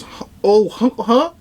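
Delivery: high, confused huh; startled mouse lady; surprised. Retold or imitated. Mouse woman startled when All Might picks her up. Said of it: "And then she goes".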